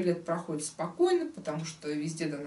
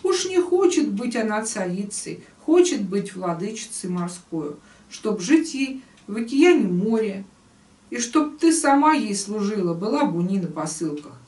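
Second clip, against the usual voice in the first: emphatic storyteller, line openings punched; expressive tale reading; 5 dB louder than usual. Acted. Teacher reading the old man's plea to the fish, expressive storytelling. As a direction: read the verse tale out with rise and fall. Reads the tale aloud in verse.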